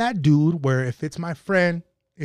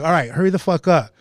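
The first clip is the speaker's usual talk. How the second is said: impatient demand; 6 dB louder than usual. Retold or imitated. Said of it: "And then she's like".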